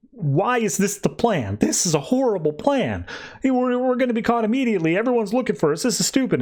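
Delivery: high-pitched mock exasperation; frantic imitation of a fed-up complainer; indignant panic. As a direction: act out a flustered protest, pitch climbing. Voicing characters panicking over a plan.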